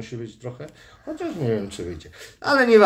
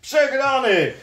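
excited high voice; 9 semitones higher than usual. Real, not acted. Arm wrestling game announcement.

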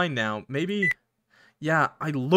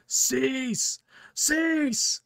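high, ringing command in a put-on voice; commanding cease; 11 semitones higher than usual. Game character crying out an order to stop, high and commanding. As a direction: order them to stop, pitched way up.

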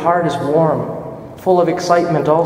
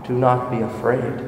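calm and gentle; 4 dB quieter than usual. Acted. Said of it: "his calm, gentle voice".

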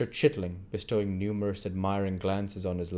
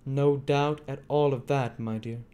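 Fagin voice; 6 semitones higher than usual. A narrator's reading.

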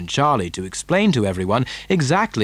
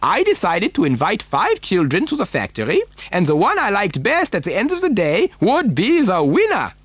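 higher, swooping eccentric factory owner's voice; animated storybook Mister Wonka; 8 semitones higher than usual. Acted. Factory owner explaining why he needs a child, animated. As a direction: relish it, pitch leaping on key words.

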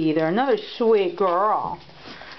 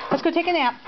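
much higher, sing-song nap invitation; high pet talk; 10 semitones higher, faster than usual. Real, not acted. Owner urging tired puppy to nap, high and sweet.

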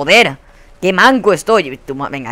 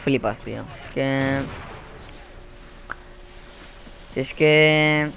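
low, soft and resigned; deflated muttering; 6 semitones lower, 11 dB quieter than usual. Real, not acted. Player blaming himself after screaming, deflated quiet voice. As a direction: sink into quiet, halting self-reproach.

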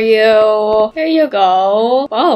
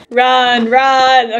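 laughing. Real, not acted. Laughing in panic.

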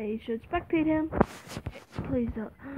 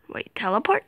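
whispering. Real, not acted. Whispering while hiding in game.

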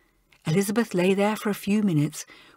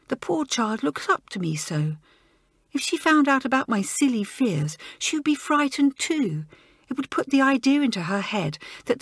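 despairing schoolgirl; 5 semitones higher than usual. Acted. Joan voiced, despairing.

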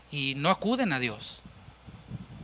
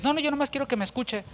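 impatient brush-off; 7 semitones higher, 4 dB quieter, faster than usual. Retold or imitated. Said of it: "Hay quienes".

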